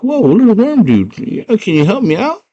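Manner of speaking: put-on high girl voice. Girl asks worm.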